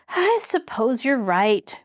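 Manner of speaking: slow, reluctant agreement; reluctant giving in. Acted. Mary reluctantly agreeing with Tom, slow. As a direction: give in against your will. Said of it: "Mary gave in reluctantly".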